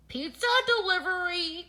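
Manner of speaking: high, loud sing-out call. A narrator's reading. Stranger bringing pizza to boys in a tent, calling out. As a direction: announce yourself from outside. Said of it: "called an unfamiliar voice".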